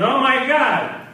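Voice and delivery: loud, high, drawn-out cry of disbelief; shocked exclamation. Acted. Drunk reading a parking meter, shocked exclamation.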